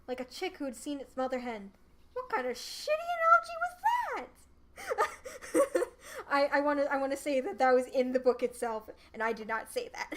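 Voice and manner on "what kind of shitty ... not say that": cute anime streamer. Real, not acted. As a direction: giggle and protest to listeners. Reader breaks off laughing.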